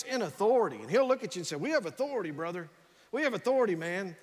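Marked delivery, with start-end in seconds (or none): 1.6-2.7 lightly voiced Rex, authoritative, falling off on brother; a hint of Rex speaking with authority; imitating Rex. Pastor imitates Rex in the hospital, lightly voiced with authority. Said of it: "that's how he talks". 3.1-4.2 a hint of Rex, pressing the point harder; imitating Rex, more emphatic. Pastor imitates Rex repeating himself, a touch more forceful. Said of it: "that's how he talks".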